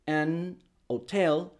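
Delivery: "an hotel" said very slowly with a mute h, as an otel; silent h. Retold or imitated. Teacher imitating people who say "an hotel". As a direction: stretch out "an hotel" with no h. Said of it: "va a haber gente que diga".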